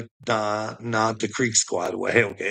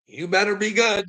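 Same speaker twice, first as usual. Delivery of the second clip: much higher mock preacher warning; 10 semitones higher than usual. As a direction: lampoon a preacher's admonition, pitched way up. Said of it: "there's your preacher telling you".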